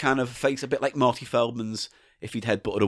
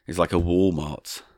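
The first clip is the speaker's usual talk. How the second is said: too pausey; 7 semitones lower than usual. Acted. Reading a Kmart story aloud, too pausey. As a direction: drag it out, pausing between phrases. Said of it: "Too pausey now. It's too pausey".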